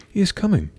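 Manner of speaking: high-pitched excited stepsister; calling out. A narrator's reading. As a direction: call the news from the window. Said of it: "called one stepsister".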